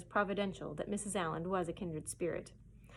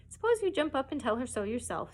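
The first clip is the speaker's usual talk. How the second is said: merry; 4 semitones higher, 4 dB louder than usual. Acted. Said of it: "said a merry voice".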